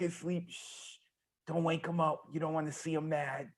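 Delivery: put-on soft hushed whisper near a sleeping baby; whispering over a crib. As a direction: hush it so the baby stays asleep. Baby Hulk asleep on camera.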